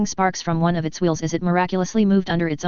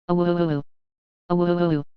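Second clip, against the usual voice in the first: wolf howl; slower than usual. A narrator's reading. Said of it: "Echoed across the neighborhood".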